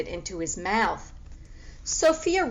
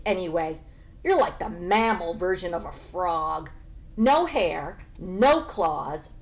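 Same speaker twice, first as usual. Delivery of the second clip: sneering cat. Acted. Sneering cat mocks the pig.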